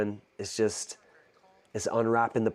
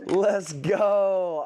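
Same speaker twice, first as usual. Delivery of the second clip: excited shout; 11 semitones higher, 3 dB louder, much slower than usual. Real, not acted. Commitment announced, celebrating.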